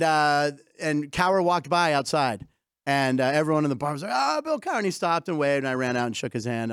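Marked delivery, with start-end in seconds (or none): 4.1-4.8 imitated excited cheer. Bar crowd hailing Bill Cowher walking by, imitated excitement. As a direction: imitate bar patrons spotting a celebrity.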